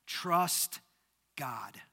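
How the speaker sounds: ordinary delivery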